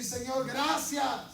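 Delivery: slow, earnest thanks to the Lord; a slow grateful prayer. Shown as a demonstration. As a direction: pray it slowly, from the heart. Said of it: "Le puedes decir".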